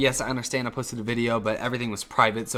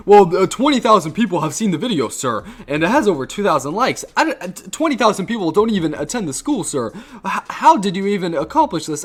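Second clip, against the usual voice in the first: higher, louder put-on old-man voice; mock baffled dean; 6 semitones higher, 4 dB louder than usual. The old dean marvels at the student's view count, high and incredulous. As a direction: ham up the bewildered dean.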